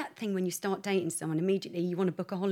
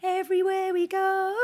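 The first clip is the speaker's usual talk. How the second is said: higher, louder sing-song alarm; mock urgent call; 8 semitones higher, 5 dB louder, slower than usual. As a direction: build the chant into a playful alarm. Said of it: "I remember going".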